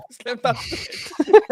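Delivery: put-on slow, joking Arab accent; drawn-out Arab twang. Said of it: "I wanna put a Muslim thing to it".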